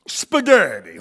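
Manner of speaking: sudden loud mock shout; booming American tourist. American tourist ordering in Italy, loud shout. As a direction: blurt it out at full volume. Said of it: "my voice freaks people out in Europe".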